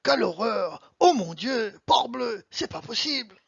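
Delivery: short bursts of French exclamation; mildly dramatic French exclaiming; mock French exclamations. Shown as a demonstration. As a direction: demonstrate emphatic French outcries. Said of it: "exclamations and emphatic expressions".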